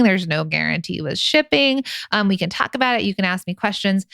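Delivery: high, excited sales-pitch voice. Acted. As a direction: hype up your followers like an influencer. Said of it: "It's your hype girl voice".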